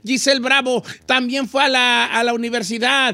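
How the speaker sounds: sustained, evenly pitched announcer delivery; radio host intro. Acted. Host introduces the whole crew to listeners, announcer style. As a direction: roll out the team like a radio presenter. Host's show intro and cast roll call.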